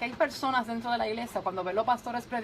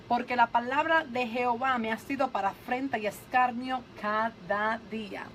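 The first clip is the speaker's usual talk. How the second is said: solemn scripture reading. Acted. Reads Jeremiah slowly. (lectura dramática y pausada)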